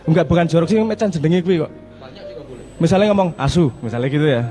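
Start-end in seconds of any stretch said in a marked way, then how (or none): 3.3-3.7 short, blunt curse word; insulting swear. Shown as a demonstration. Speaker showing an audience one word in two meanings, insulting. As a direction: toss it out as a quick insult. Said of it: "yang satu ngatain".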